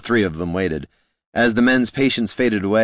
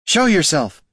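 much higher, louder challenge to the forest; loud demand into the swamp; demanding call; 10 semitones higher, 5 dB louder than usual. A narrator's reading. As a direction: call out into the trees. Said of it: "she demanded".

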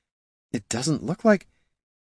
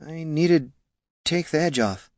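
higher-pitched, slurred excuse; drunken slurring; 7 semitones higher than usual. A narrator's reading. Drunk ranger excusing herself to the dwarf, slurring. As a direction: slur the words tipsily. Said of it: "slurred Catha".

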